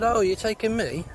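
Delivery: high, excited wife voice, hammed up; mock hopeful wife. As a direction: squeak it out as the eager wife. Wife voiced in a pub joke.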